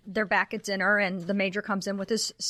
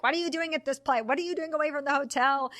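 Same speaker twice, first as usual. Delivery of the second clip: mock angry; 6 semitones higher than usual. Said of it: "now he's really mad".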